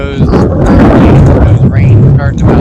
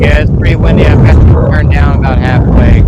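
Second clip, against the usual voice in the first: shouting over wind; faster than usual. Real, not acted. Radio check in strong wind.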